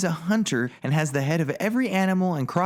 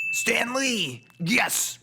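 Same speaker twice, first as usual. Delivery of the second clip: excited; 7 semitones higher, much slower than usual. Real, not acted. Cameo spotted, excited shout.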